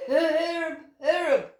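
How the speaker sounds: high bright chirps; chirping attempt. A narrator's reading. Owlet copies the grasshopper's chirp, high and bright.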